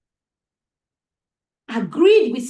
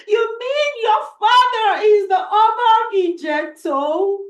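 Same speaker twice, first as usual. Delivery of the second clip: tearful gratitude; 5 semitones higher than usual. Acted. Simbiat weeping thanks to the princess, raised and tearful. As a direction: overcome with grateful tears. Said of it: "started to cry".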